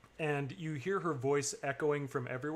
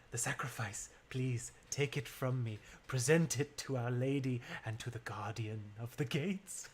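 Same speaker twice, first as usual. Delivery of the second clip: lightly voiced acolyte.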